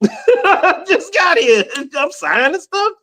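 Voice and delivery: high, startled wait a minute; mock surprise. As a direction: pull up short, high. Surprised at signing.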